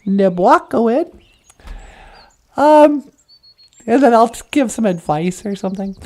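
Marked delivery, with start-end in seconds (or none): 0.0-1.1 mock announcer voice, a touch louder; host announcement. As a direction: introduce the segment like a show host. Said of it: "I'm all like".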